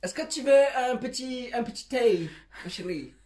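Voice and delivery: hammed-up English accent in French; French with a put-on English accent; mock English accent. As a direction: play a tea-serving English lady, accent and all. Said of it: "faut prendre l'accent, euh, anglais".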